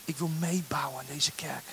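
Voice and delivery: hushed, slow praying whisper; whispered prayer. Pretend. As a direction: breathe the words like a private prayer. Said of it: "Je gaat zeggen".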